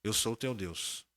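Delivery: slow, solemn, measured divine voice; voice of God. Retold or imitated. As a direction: deliver it slowly like a grave divine voice. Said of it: "Falou assim".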